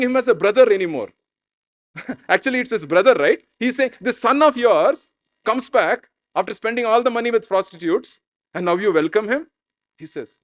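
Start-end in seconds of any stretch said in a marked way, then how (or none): 4.0-9.5 mildly indignant, higher-pitched accusation; acted grievance, starting high; angry. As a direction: challenge the father as a resentful son. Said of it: "He's angry".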